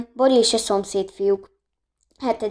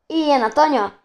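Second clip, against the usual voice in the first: higher, louder cheer; cheering shout; 5 semitones higher, 4 dB louder than usual. A narrator's reading. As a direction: call it out with delight. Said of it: "kiáltott fel Bori".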